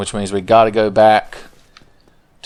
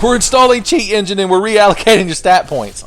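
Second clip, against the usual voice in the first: Oscar voice; 10 semitones higher, 4 dB louder than usual. Retold or imitated. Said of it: "He's like".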